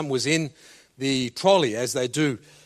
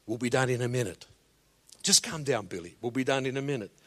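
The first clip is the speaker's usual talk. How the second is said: calm soothing dad; 4 semitones lower than usual. Retold or imitated. Father calming his screaming son in a supermarket. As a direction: settle the child gently. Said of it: "heard this father say".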